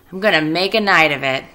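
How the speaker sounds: loud gleeful rat. Acted. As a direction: relish the plan. Rat leaving for fair.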